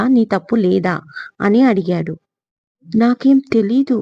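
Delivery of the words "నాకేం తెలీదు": a touch of fear, voice lifted higher and tight; frightened denial. Acted. Geetha, cornered by her brother-in-law, answers in mild fright. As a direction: protest timidly, caught out. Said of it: "అంది భయంగా".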